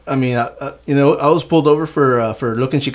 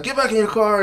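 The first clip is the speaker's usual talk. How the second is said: much higher mock police command; imitated loudspeaker order; 8 semitones higher than usual. Cop repeating the order to the passenger, imitated loudspeaker. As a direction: call it out like a cop's speaker. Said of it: "like, on the speaker".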